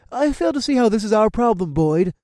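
put-on high, strained older man; a tense, pleading elder. Boyd argues with Carl.

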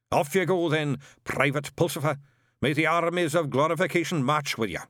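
put-on high, barking old sergeant; old witchfinder sergeant. A narrator's reading. Shadwell drilling Newt through the kit list, barking. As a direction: bark out the checklist like a drill sergeant.

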